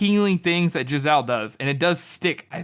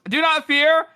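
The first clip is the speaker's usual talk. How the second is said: high pleading with a cracking please; 11 semitones higher, 4 dB louder, much slower than usual. Acted. Giselle begs the frightened crowd, voice cracking on please. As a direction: beg them, voice breaking. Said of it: "his voice cracking with he says, "Please".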